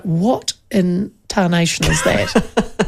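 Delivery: slow, drawn-out baffled dog voice; bewildered old dog. Retold or imitated. Dog's reaction voiced.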